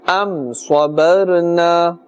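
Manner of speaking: slow, drawn-out tajweed recitation; Quran recitation. Shown as a demonstration. Teacher models the verse for learners, slow tajweed recitation. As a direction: recite slowly and evenly, holding the final vowel.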